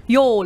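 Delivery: Y'all drawn out as one syllable, yol; a careful try at the Texan Y'all; practising Y'all the Texan way; saying y'all. Shown as a demonstration. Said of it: "train me to say y'all".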